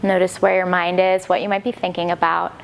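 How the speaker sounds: calm, unhurried instruction with long pauses; guided yoga meditation. Acted. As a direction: gently guide them inward, leaving space between phrases. Leads settling into meditation.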